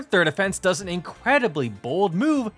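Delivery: ordinary talk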